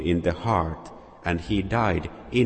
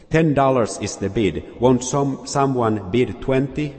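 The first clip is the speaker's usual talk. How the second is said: higher, louder plea for a bid; auctioneer calling out; 5 semitones higher, 4 dB louder than usual. Acted. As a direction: urge someone to bid.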